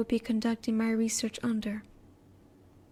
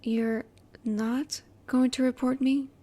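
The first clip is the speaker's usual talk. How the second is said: slow, halting surprised question; hesitant, understated astonishment; surprised disbelief. Acted. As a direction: ask it slowly, hardly believing it. Learns he won't be reported.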